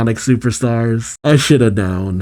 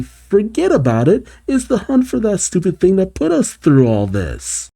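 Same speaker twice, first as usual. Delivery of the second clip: high-pitched acted freak-out; Bean; 8 semitones higher than usual. Bean protesting the hunt to Fang, freaking out. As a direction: pitch it way up, frantic. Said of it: "Although Bean freaks out".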